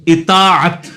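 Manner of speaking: اطاعت with short i first, long drawn-out taa, clear final at; careful correct pronunciation. Shown as a demonstration. Teacher answering which vowel the word takes, careful correct pronunciation. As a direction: say اطاعت slowly, syllable by syllable, opening on i. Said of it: "الف کے نیچے زیر ہے جی".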